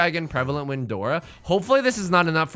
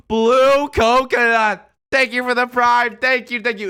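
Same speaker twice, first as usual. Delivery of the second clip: loud, high, drawn-out thanks; excited thanks; 7 semitones higher, 8 dB louder, slower than usual. Real, not acted. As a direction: cheer the name out. Thanking a subscriber loudly.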